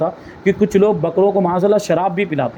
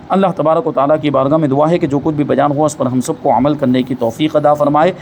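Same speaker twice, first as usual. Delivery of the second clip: lower-pitched formal supplication; closing prayer; 4 semitones lower than usual. Real, not acted. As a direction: close the lesson with a low, measured dua. Closing prayer ends the lesson. (اختتامی دعا، دھیمے سُر میں)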